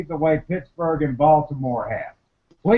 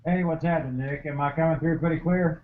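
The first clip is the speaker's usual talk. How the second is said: far from mic; 6 dB quieter, faster than usual. Real, not acted. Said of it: "you sound like you're far away from your computer".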